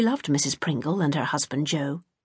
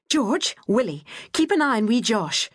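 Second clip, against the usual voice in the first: stern command; 5 semitones higher than usual. A narrator's reading. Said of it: "she commanded sternly".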